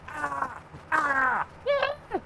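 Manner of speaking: squawking bird noises that jump very high at the end. Retold or imitated. Mocking the bird that wakes him at six, squawking. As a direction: imitate a bird at the window. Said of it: "goes like".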